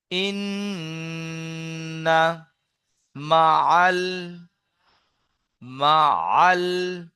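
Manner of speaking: broken into slow syllables; staccato. Shown as a demonstration. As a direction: chop each word apart, very slowly. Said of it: "আমি কেটে কেটে বলছি".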